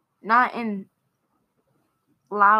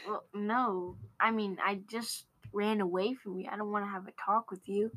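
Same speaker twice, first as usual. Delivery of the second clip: much softer inner thought; quiet aside; 10 dB quieter than usual. Retold or imitated. Girl thinking to herself about the librarian, softer. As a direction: say it under your breath. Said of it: "I'm like".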